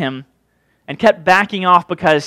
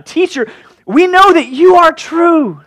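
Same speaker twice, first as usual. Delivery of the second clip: much higher, slow, sugary fake praise; mock flattery; 10 semitones higher, 5 dB louder, slower than usual. Plotters sweet-talking Jesus, high and slow fake praise. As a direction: lay the flattery on thick. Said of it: "It's really funny when you think about it".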